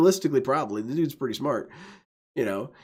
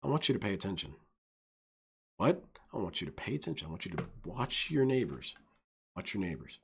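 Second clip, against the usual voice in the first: shady dealer; 3 semitones lower, 8 dB quieter, faster than usual. Retold or imitated. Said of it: "It's like".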